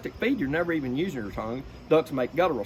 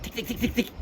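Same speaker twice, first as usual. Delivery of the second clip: tight ticking call; 7 semitones higher, 3 dB quieter than usual. Shown as a demonstration. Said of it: "a lot of people will blow too tight".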